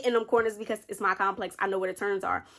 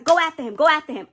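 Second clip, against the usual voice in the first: higher and louder, urgent command; urgent yell; 6 semitones higher, 6 dB louder, faster than usual. Retold or imitated. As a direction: bark it like a dad in a hurry. Dad urging to chase.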